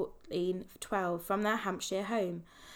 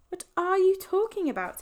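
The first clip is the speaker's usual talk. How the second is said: whispering; 11 semitones higher, 5 dB louder than usual. Acted. Ben confused, whispered.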